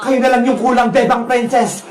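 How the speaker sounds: low, pleased villain voice; scheming wicked vendor. Acted. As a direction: relish your evil cooking. Villain readies her pot. (mababang boses ng masamang tindera, tuwang-tuwa)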